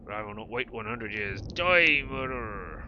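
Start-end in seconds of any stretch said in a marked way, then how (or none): 1.4-2.8 battle cry. Acted. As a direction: strike with a shout. Attacking the murderer tree.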